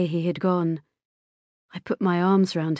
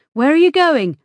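louder, higher urgent question; calling after him; 8 semitones higher, 8 dB louder than usual. A narrator's reading. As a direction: call out to the son walking off. Mother calls after departing son.

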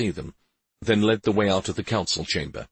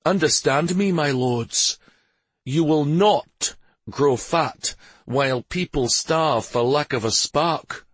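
higher, emphatic lordly warning; stern Stavin addressing lords; 7 semitones higher, 3 dB louder than usual. Acted. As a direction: lay down the law as a ruler.

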